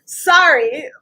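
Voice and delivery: choked-up, drawn-out apology; slow down as real emotion wells up; tearful apology; getting emotional. Real, not acted. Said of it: "Why am I getting emotional?".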